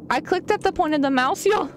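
usual speaking voice

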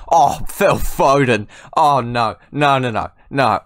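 loud, drawn-out cry of disbelief; amazed outburst. Real, not acted. Gamer stunned by his player's goal, amazed outburst. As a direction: burst out, stunned by a brilliant goal.

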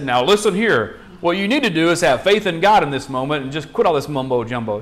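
a hint of a preachy lecture; mild lecturing tone. A prophet lecturing the widow, with a mild scolding tone. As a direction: lecture a grieving widow, lightly. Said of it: "What if Elijah had said".

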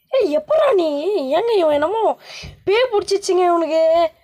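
high, alarmed exclamation; spooked outcry. Real, not acted. Gamer to viewers about a possessed baby, spooked outcry. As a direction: cry out in spooked disbelief.

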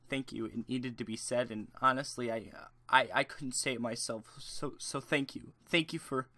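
milk the fake gratitude, hushed and earnest; iDubbbz impression. IDubbbz thanking the commenter, a hint of mock sincerity. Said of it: "I can't fucking do an iDubbbz impression".

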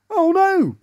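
high, dismayed outcry; alarmed. Acted. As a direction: cry out as the class gets out of hand. Teacher dismayed by animal noises.

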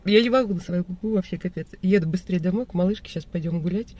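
numb lip after anesthesia; talking with a numb lip; numb from the dentist. Real, not acted. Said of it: "я так смешно разговариваю".

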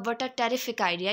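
slow, direct and matter-of-fact; straightforward man's phrasing. Shown as a demonstration. Teacher demonstrating how a man says it, slow and direct. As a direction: say it straight, no frills. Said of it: "यानी कि वो straight forward होकर use करेगा".

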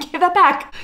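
high-pitched playful demand; mock demand. Acting out grabbing back the sweatshirt.

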